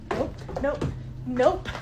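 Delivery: panicked nope. Real, not acted. Running downstairs from the haunted room, panicking. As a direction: back away in fright, each nope climbing.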